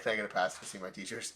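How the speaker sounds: quick, offhand request; nonchalant. Retold or imitated. Student asking to see his teachers, casually nonchalant. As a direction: rattle it off casually. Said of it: "so nonchalantly".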